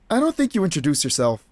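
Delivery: said through a weary exhale; sighing reply; sighed. Shown as a demonstration. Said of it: "it's supposed to be like a sigh".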